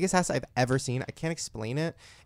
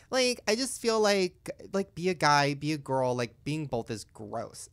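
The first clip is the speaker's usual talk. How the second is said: a hint of mimicry, slowing to the end; lightly imitating Farrah; slower than usual. Retelling a guest's opinion from the interview, light imitation. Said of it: "she literally was just like".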